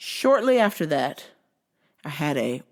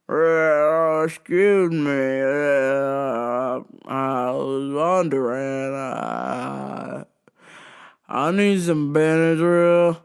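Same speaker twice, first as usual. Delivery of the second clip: slow, halting redneck drawl; redneck customer; 3 semitones lower, 3 dB louder, much slower than usual. Retold or imitated. Drunk redneck customer asking the clerk for Benadryl, slow drawl. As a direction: drag it out like a dazed redneck. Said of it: "dare is a rednecky type customer".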